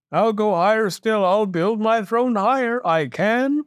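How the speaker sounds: high, insistent royal vow; stubborn monarch refusing to be outdone; defiant king. A narrator's reading. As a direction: build up the boast, pitched high. King defiantly vows to climb.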